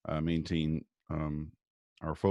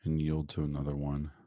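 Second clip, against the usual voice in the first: calm, measured guiding voice with long pauses; guided meditation. Real, not acted. Guest doctor leading listeners through morning breathing and visualization, guided meditation.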